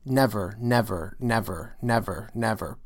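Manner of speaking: NEver stressed on the first syllable, falling off; trochaic nevers. Shown as a demonstration. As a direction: let each never fall from its first beat. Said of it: "we're actually in trochaic pentameter".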